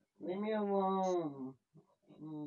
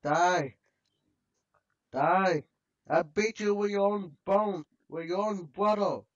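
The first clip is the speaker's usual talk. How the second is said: aggressive yell; 2 semitones higher, 5 dB louder than usual. Real, not acted. Attacking skeleton in game.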